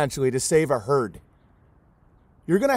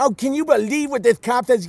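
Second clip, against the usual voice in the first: mocking outraged viewer; 5 semitones higher than usual. Mocking truth channel viewers.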